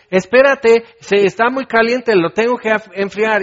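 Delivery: high, loud mock parent pleading; parent soothing baby. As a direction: act the fussing parent begging the baby to wait. Parent calming crying baby.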